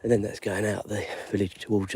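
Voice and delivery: ordinary delivery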